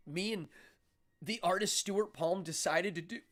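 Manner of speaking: hiccups while talking; talking through hiccups; hiccuping. Real, not acted. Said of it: "oh, I'm hiccuping".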